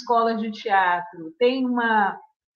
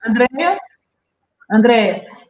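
calling her name louder each time; 6 dB louder than usual. Real, not acted. Calling to someone with failing mic.

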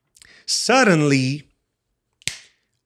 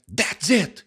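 excited cry; 6 semitones higher than usual. Shown as a demonstration. Teacher showing how "he cried" sounds, excitedly. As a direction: exclaim it with strong intonation.

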